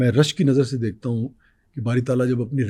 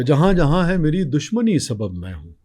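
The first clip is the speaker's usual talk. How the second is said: nazm recitation; 3 dB louder than usual. Acted.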